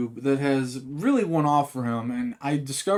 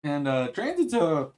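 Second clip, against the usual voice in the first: hiccups; 2 semitones higher, slower than usual. Real, not acted. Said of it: "I got the hiccups".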